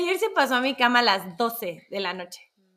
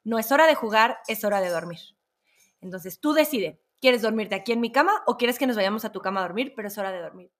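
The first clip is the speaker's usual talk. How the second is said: firm; 2 semitones lower than usual. Retold or imitated. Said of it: "Y ser súper firme".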